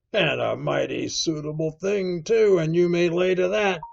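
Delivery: rising, forceful landlord voice; emphatic rebuke. A narrator's reading. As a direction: drive the point home. Silver rebukes Morgan.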